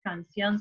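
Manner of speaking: CANCIÓN slowly broken as can, then ción; split into syllables. Shown as a demonstration. Teacher showing how a word splits, CANCIÓN slowly syllable by syllable. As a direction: pull CANCIÓN apart into two separate syllables. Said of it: "se separa".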